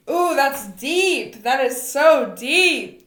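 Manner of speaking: slow, swooping emphasis on each phrase; wowed, with big pitch swoops; impressed reaction. Real, not acted. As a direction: draw it out, deeply impressed. Listener reacts to her insight.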